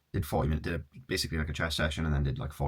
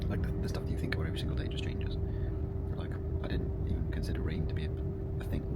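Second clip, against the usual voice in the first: whispering. Real, not acted. Speaking softly on a train.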